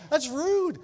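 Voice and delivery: high, loud and indignant; mock outrage. Preacher joking that passing by is rude, high and loud. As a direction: play up the offence.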